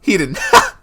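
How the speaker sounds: loud, high shocked outburst; shocked yell. Real, not acted. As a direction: shout it out, stunned. Shocked reaction.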